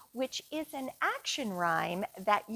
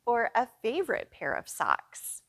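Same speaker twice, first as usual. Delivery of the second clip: whisper. Real, not acted. Whispered aside to kids.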